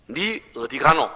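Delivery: slow, drawn-out Gyeongsang 가노; Gyeongsang dialect question. Retold or imitated. Pastor demonstrating dialect, slow Gyeongsang question. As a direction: ask it like a Gyeongsang local. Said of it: "자".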